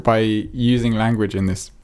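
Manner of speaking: talking through a burp; words pushed out on a burp. Real, not acted. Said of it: "red wine burp".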